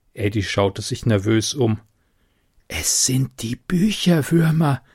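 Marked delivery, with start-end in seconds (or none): 2.7-4.8 spooky hushed warning; lightly voiced creepy murmur; eerie whisper. A narrator's reading. Eddie spooking Loreen in the dark library, eerie hush. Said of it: "flüsterte er unheimlich".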